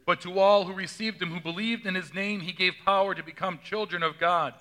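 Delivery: solemn, measured gospel reading; scripture reading. Acted. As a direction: read it as the liturgy, steady and grave.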